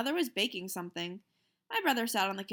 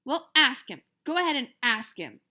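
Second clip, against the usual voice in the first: challenging; 4 semitones higher, 8 dB louder than usual. Acted. Peter challenging mother.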